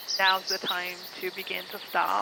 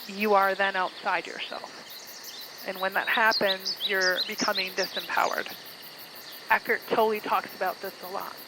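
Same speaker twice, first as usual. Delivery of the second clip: measured meditation guide, pausing between phrases; guided meditation. Acted. Guide leading listeners toward self-awareness, guided meditation voice. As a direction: ease them into awareness with lingering pauses.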